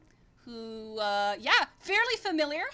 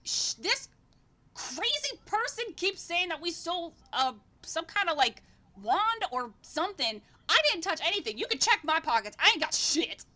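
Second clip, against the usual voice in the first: indignant twin; 5 semitones higher than usual. Acted. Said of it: "is like".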